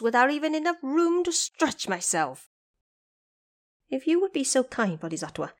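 high, lively trapped monkey king, grateful; eager Monkey King. A narrator's reading. Trapped Monkey King thanks the visiting Bodhisattva, high and eager.

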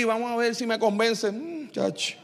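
imitar a un oyente difícil de convencer, bajando la voz; escéptico desganado. Acted. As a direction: murmullo escéptico que se apaga. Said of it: "si usted llega ahí". (oyente escéptico, voz cada vez más baja)

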